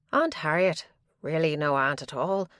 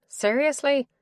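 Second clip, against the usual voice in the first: sharp, much higher disbelieving "Seriously?"; incredulous scoff; 9 semitones higher, 4 dB louder than usual. A narrator's reading. Woman scoffs at a stranger's compliment, incredulous. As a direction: scoff at the very idea. She scoffs at his flattery.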